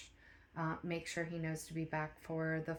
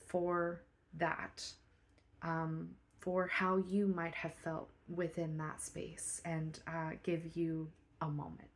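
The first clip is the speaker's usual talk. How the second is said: quiet private talk; 7 dB quieter than usual. Acted. Manager's quiet private meeting.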